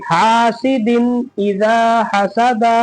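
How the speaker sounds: slow recitation of "हासिदिन इजा हसादा", n clearly sounded; clear nun. Shown as a demonstration. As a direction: stretch the long vowels in "हासिदिन इजा हसादा". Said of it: "जाहिर करके".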